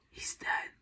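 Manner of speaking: hushed, voiceless whisper. A narrator's reading. Child to sister over the fallen clown, whispered. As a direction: whisper it very softly after a long silence. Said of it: "I whispered".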